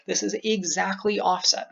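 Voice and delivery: "exactly" drawn out for emphasis; slow down and lean on "exactly"; slow stress on exactly. Shown as a demonstration. Coach demonstrates emphasis by speed, "exactly" said slowly. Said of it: "words that you want to say slowly".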